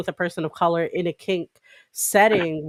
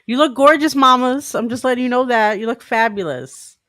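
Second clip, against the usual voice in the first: excited compliment; 6 semitones higher, 6 dB louder than usual. Real, not acted. Hyping up the guest.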